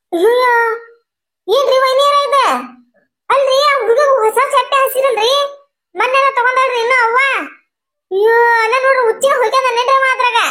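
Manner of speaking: high-pitched, scandalised exclaiming; aghast complaint. Acted. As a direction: cry out in dismay at a mess. Aghast at what the child did.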